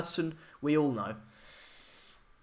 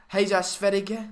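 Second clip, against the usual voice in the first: a clumsy go at Swedish pronunciation of Jesus Sverige; attempted Swedish; 4 semitones higher than usual. Shown as a demonstration. Stream host cheering Swedish viewers with bad Swedish. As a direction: try saying Jesus Sverige the Swedish way and miss. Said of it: "that was awful".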